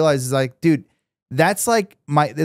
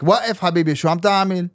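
demonstrating own Arabic accent; 2 semitones higher than usual. Shown as a demonstration. Defending his accent to friends, a sample in Arabic accent. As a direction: speak it in a casual Arabic accent. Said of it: "this is my Arabic accent".

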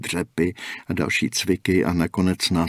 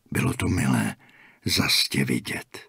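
warm; 7 semitones lower, 4 dB quieter than usual. A narrator's reading. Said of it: "Vřele se usmál".

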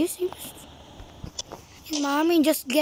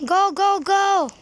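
eager rallying cry; excited shout; 6 semitones higher, 4 dB louder than usual. Real, not acted. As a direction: cheer them on to charge. Urging army to charge.

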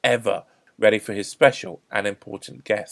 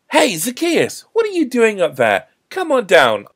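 loud, high friendly hail; raised voice, hailing from below; calling up; 11 semitones higher, 9 dB louder than usual. A narrator's reading. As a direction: call up to someone in a tree. Jesus calls up into tree.

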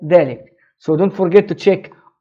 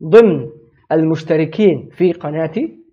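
phrase by phrase, pausing between chunks; teacher breaks the sentence for learners, pausing; slow broken-up model sentence; 4 semitones lower, much faster than usual. Shown as a demonstration. Modeling the sentence in chunks for students, with pauses. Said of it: "Our first sentence is".

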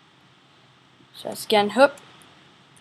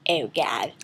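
scared whisper; 7 semitones lower than usual. Real, not acted. Dread at something.

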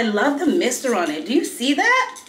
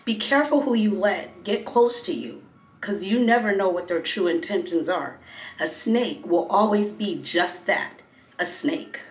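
solemn warning; 4 dB quieter than usual. Real, not acted. Moral delivered slowly, soft.

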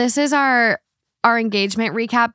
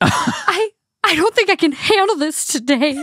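much higher, breaking into a teary laugh; voice cracking; 8 semitones higher than usual. Retold or imitated. Friend overwhelmed by the news, a voice cracking with tears. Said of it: "her voice starts, like, cracking".

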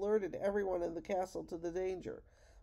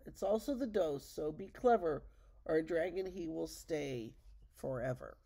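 poem recital. Acted. Grandma reads the riddle poem.

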